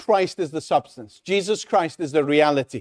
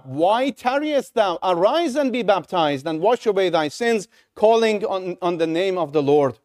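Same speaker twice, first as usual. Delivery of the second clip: urgent plea; 2 semitones higher than usual. Acted. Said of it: "can you hear the urgency?".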